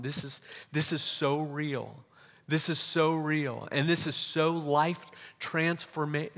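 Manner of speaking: from a stunned murmur to slow, lifted wonder; building awe. Retold or imitated. Overwhelmed by God's presence, retold.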